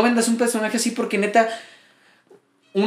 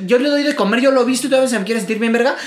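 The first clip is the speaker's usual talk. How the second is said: mock aggressive woman; 4 semitones higher than usual. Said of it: "se pone a hablar como".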